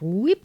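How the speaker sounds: quick rising "whoop"; zoom sound effect. Retold or imitated. Showing viewers the dolly zoom effect, playful whoop. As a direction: make a little whoosh upward with the voice.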